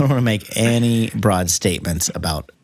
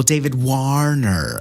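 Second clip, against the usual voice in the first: slow, drawn-out David Warner; mock realisation; 2 semitones higher, slower than usual. Shown as a demonstration. Teasing co-host over identical names, slow mock realisation. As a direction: stretch "Warner" out as if it dawns on you.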